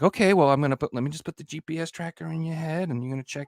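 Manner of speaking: high, rushed mock-controlling parent; overbearing parent. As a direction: rattle it off like a helicopter parent. Modern parents voiced.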